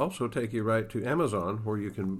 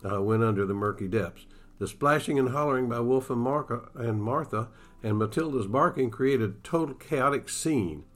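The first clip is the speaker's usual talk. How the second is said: steady storyteller reading a Western aloud; story narration. Acted. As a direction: read it like an author sharing his book on the radio. Author reads his novel aloud.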